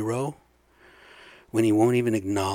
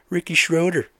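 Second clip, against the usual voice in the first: outraged name drop; 5 semitones higher, 6 dB louder than usual. Real, not acted. Outraged reveal.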